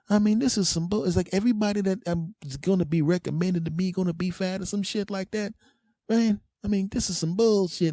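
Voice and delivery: high, incredulous rant; indignant rant. Retold or imitated. Friend ranting angrily about fat trainer.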